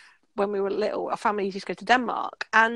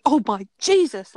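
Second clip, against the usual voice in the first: a slow, louder, horrified "Oh, my Jesus"; shocked gasp; 6 dB louder than usual. Retold or imitated. Supervisor recoiling from the sandwich, slow louder shocked cry. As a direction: mimic the supervisor reeling at the sandwich. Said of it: "like, literally that".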